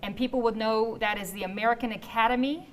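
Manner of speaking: slow, with pauses between chunks; deliberately slow. Real, not acted. Host repeating the website for the back, deliberately slow. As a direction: spell it out slowly, piece by piece. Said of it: "I'm just saying it slow".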